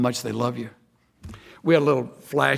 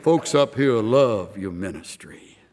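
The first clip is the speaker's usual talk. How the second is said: slow, lower imitation of an orator; eloquent chaplain; 4 semitones lower, slower than usual. Chaplain praising the pastor's ministry, slow mock eloquence. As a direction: imitate a stately chaplain, unhurried. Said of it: "wonderful voice. I'm trying to act like it".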